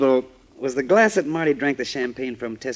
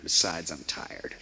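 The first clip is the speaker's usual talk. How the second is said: much lower, softer and slow; tired brush-off; 7 semitones lower, 9 dB quieter, slower than usual. Acted. Hank turns down Ann at night, weary. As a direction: let fatigue drag the words.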